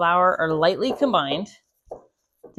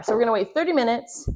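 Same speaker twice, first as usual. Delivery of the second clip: slightly out of breath while talking; 4 semitones higher, faster than usual. Real, not acted. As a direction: speak a little short of breath, out of breath. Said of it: "I'm out of breath for no reason".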